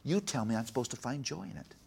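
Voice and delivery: retold childish protest; frustrated daughter. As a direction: imitate a little girl airing her grievance. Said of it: "I'm frustrated at you and Mom".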